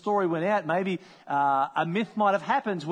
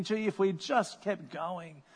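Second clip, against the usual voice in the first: frustrated; slower than usual. Pretend. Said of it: "feeling somewhat angry, maybe frustrated".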